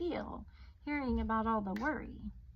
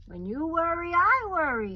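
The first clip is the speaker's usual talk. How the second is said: louder and higher, leaning on I; emphatic father; 7 semitones higher, 11 dB louder than usual. Acted. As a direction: let the father's worry spill over, loud. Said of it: "says her father".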